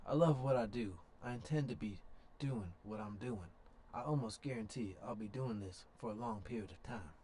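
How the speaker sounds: lightly voiced old man; a hint of an old man; old man impression. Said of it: "I don't know what that accent was ... my old man impression".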